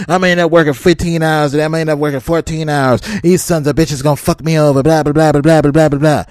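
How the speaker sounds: imitating a whiny, griping driver; mock frustrated trucker. Mocking the trucker ranting in the waiting room, mildly whiny. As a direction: grumble it like a fed-up guy venting. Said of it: "this dude was all upset, all frustrated".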